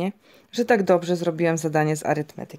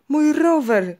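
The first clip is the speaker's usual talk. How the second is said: put-on high-pitched boy's cry of protest; 9 semitones higher, 4 dB louder, slower than usual. A narrator's reading. Boy sees his bike fall into the begonias, crying out. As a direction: cry out in a much higher voice, a little louder. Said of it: "krzyknąłem".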